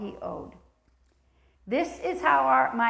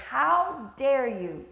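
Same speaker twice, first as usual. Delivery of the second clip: slow, stern rebuke; harsh preacher's challenge. Acted. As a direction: scold the church hard. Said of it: "I'm gonna be harsh and say".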